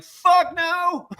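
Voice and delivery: high curt refusal; hammed-up gruff no; mock judge refusal.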